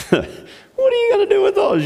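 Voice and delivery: high, laughing taunt; mocking laughter. Goliath sneering at David's five stones, mock laughing taunt. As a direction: jeer through a put-on laugh. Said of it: "and he's laughing".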